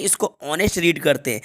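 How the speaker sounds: "ऑनेस्ट" said with no h at the start; silent h. Shown as a demonstration. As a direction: begin "ऑनेस्ट" straight on the vowel. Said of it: "इसको हॉनेस्ट नहीं". ("ऑनेस्ट" में ह silent)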